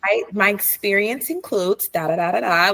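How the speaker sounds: a hint of polished work voice; lightly formal, careful greeting. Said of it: "let me get my work voice on".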